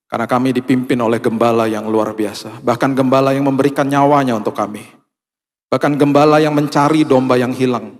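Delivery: loud, fervent prayer over music. Acted. Pastor leading the church in prayer, fervently. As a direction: pray aloud for the whole church.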